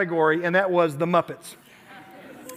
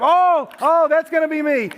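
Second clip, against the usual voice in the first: higher, louder eager "oh, oh"; eager student; 6 semitones higher, 4 dB louder than usual. Retold or imitated. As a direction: mimic a keen kid claiming it. Student jumping at a category.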